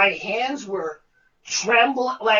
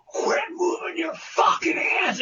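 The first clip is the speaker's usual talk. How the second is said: higher, angry yell; yelling director; 6 semitones higher than usual. Retold or imitated. Director yelling at the actor in rehearsal, angry. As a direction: snap it at him across the stage. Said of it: "and he goes".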